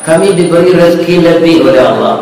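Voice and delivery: softly voiced kind girl, low and tender; low, soft storytelling quote; gentle reassurance. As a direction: offer charity quietly and kindly.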